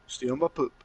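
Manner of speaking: nineties-style backup rap ad-lib; backup rapper. Shown as a demonstration. Co-host demos his echo for the theme, backup rapper. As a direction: drop it in like a rap hype man, understated. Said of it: "backup rap and stuff".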